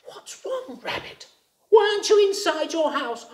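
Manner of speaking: high, cheerful little frog. A narrator's reading. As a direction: ask brightly like a small frog. Frog speaks to rabbit.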